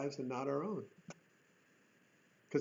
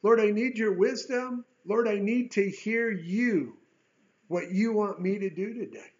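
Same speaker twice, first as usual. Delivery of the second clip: humble plea; 4 semitones higher, 3 dB louder than usual. Pretend. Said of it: "One in humility".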